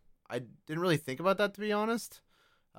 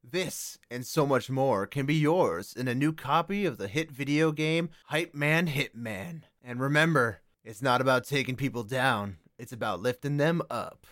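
video game ad. Acted. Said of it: "let's have a word from our sponsors".

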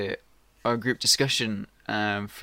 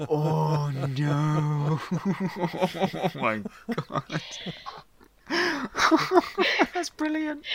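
laughing delight; 5 semitones higher, much slower than usual. Real, not acted. Laughing at church story.

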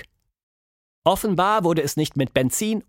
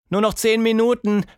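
put-on higher, louder childish begging; 9 semitones higher, 4 dB louder than usual. Tilda begging her mother, higher whiny plea. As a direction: plead for ten more minutes. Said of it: "bettelte Tilda".

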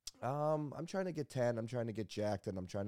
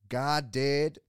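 mock-serious, loud and higher proclamation; a DJ; 4 semitones higher, 10 dB louder than usual. A DJ dead into the camera after a short putt, mock-serious. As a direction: declare it with comically grave conviction. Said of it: "gets all serious, and he looks dead in the camera".

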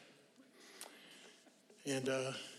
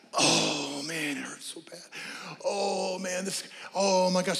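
mock whining about pain; 3 dB quieter, slower than usual. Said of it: "we talk about those symptoms".

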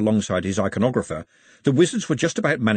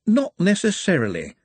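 higher, cheerful interjection; 8 semitones higher than usual. A narrator's reading. A voice cuts into the argument, cheerfully higher. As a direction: pipe up cheerfully from nearby. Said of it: "said a voice cheerfully".

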